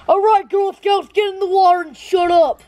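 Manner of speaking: imitating a camp leader's impatient order; mock bossy leader. Camper imitating jerk staff ordering Girl Scouts, mock bossy.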